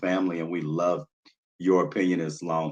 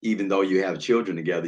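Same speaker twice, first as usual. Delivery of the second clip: ordinary talk, nothing marked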